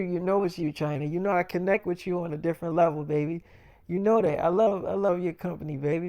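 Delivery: hushed, coaxing lover's murmur; soft sweet-talk. Retold or imitated. Sweet-talking China after the fight.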